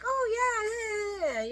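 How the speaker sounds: sing-song high mimicry; gushing imitation. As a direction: imitate girlfriends squealing along. Acting out girlfriends chatting on show.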